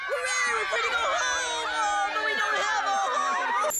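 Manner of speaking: cheering for freedom, then dismay; squeaky cheer. Acted. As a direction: shout it with glee, then catch yourself. Freed children cheer, then realise.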